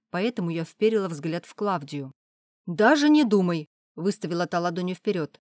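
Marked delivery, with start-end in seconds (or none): 2.7-3.7 louder, higher warding-off cry; firm refusal. Acted. Klavdia refuses to tell, loud firm refusal. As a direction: stop her flat with a raised palm.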